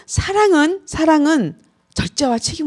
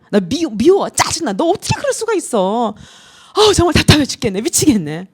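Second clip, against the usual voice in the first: mock frustration. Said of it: "이것의 표현이에요".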